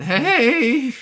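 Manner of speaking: put-on high voice-cracking teenage "Hey"; prepubescent teen accent. Shown as a demonstration. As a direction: squeak it like a nervous teen. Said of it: "Prepubescent teen accent".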